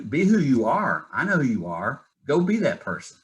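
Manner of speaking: emphatic retold urging, pitch lifting high by the end; retold pep talk. Wife getting husband back in touch with reality, emphatic urging.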